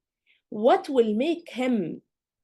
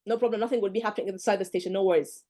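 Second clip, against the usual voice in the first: mock tired candidate. Tutor imitates a tired examiner, mildly weary. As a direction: sound like you have given up. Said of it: "tired already like him".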